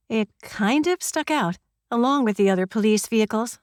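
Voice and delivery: ordinary delivery, nothing marked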